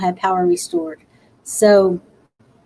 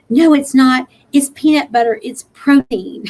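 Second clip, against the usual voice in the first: imitating insistent mom; 3 semitones higher, 5 dB louder than usual. Mom insists Nutty Butters healthy.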